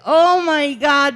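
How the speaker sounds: loud, slow "Oh my God"; thrilled amazement. Retold or imitated. Teacher amazed her pupil spoke, loud and slow. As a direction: stretch it out in delight.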